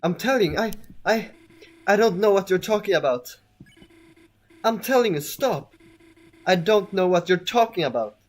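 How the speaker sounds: high-pitched, pleading protest that turns defiant; distressed game character. Acted. Reads out game dialogue in character.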